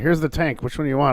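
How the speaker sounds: usual speaking voice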